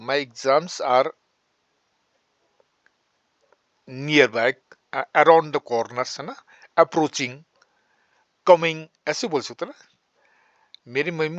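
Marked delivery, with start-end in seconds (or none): 0.1-8.9 slow dictation. Shown as a demonstration. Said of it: "मेरे exam नजदीक आ रहे हैं".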